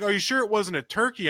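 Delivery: a hint of imitated skeptical questioning; doubting wife. Wife's retold doubting question.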